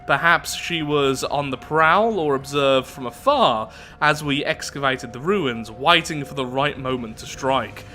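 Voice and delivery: theatrical storybook read-out; story narration. A narrator's reading. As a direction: narrate it with big, swooping emphasis. Reads the event story aloud.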